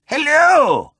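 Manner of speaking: high squawking parrot voice, loud; fruity parrot. A narrator's reading. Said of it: "responded the parrot, fruitily".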